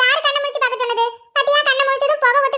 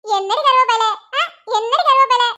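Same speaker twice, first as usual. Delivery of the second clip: laughing teasing; 2 semitones lower, 3 dB louder than usual. Real, not acted.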